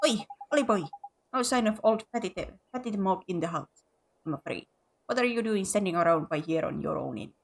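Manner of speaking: a hint of a rough neighbour; gruff local bloke. Gruff local man character.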